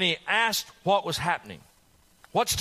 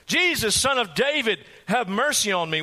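desperate cry; 5 semitones higher than usual. Acted. Blind beggar keeps calling to Jesus, desperate cry. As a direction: keep crying out, frantic. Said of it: "He is desperate. He is frantic".

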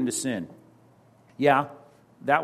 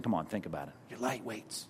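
low quiet rebuke; 5 semitones lower, 13 dB quieter than usual. Retold or imitated. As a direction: drop lower and much softer, a close firm nudge. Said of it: "The writer of Hebrews is saying".

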